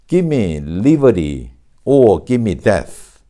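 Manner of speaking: "Give me" run together as "gimme", slowly and deliberately; slow model reading, "Give me" with the V swallowed into M; assimilated "give me". Shown as a demonstration. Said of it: "발음상 우리가 특기할 만한 것은".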